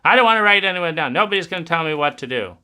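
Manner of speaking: hammed-up rebellious teenager; defiant adolescent. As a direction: rattle it off like a stubborn teen.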